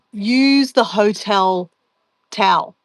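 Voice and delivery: slow, know-it-all delivery of "Use the hotel towel"; mock advice. Quoting people who tell her to use hotel towels, slow and smug. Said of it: "some people would say".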